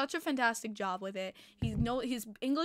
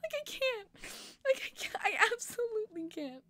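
very high, breathless squeal; overwhelmed squeal; 11 semitones higher than usual. Real, not acted. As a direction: lose it from sheer delight.

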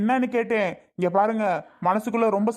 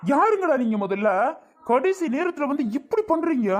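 higher-pitched indignant protest; indignant challenge; 5 semitones higher than usual. Acted. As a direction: demand answers from the intruders. Acted quarrel, challenging the intruders.

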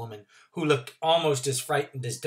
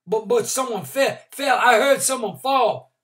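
put-on flustered old man; 10 semitones higher, 9 dB louder than usual. Randolph flustered.

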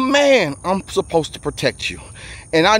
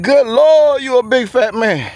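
"Good Lord" popped out higher and louder, a half-joking gasp; mock shocked exclamation; 6 semitones higher, 3 dB louder, slower than usual. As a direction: jolt on "Good Lord", then tease yourself. Reacting to his own weight.

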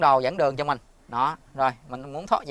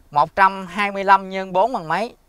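clear voice command; 5 semitones higher, 7 dB louder than usual. Real, not acted. Dictating a command to Google Assistant.

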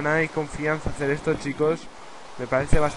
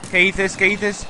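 loud, higher-pitched alarmed protest; startled outcry; 6 semitones higher, 8 dB louder, slower than usual. Real, not acted. Player reacting to a sudden attack, startled outcry. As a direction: blurt it out in raised alarm.

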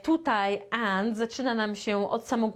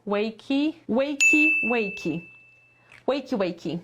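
loud wakey call; 3 dB louder than usual. Shown as a demonstration. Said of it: "a, wakey".

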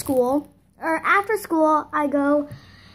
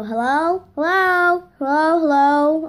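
retold calling out, building louder; mock impatient calls down a dead phone line; repeated hellos, growing more insistent; 2 semitones higher, 4 dB louder than usual. Retold unanswered call, calling out.

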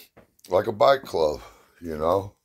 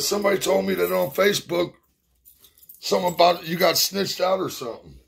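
fast, much higher mock voice; imitating Brian; 12 semitones higher, 3 dB louder, faster than usual. Brian on the phone explaining, fast high mock voice. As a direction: rattle it off high and worked up.

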